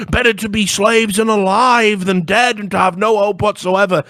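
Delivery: high, loud, desperate preacher; hammed-up frantic churchman; pleading church leader. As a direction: beg them not to give up, high and loud. Church leader protesting in retold film.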